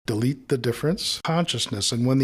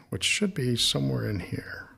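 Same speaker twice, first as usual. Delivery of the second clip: whispering; 6 dB quieter than usual. Real, not acted. Editing aside under breath.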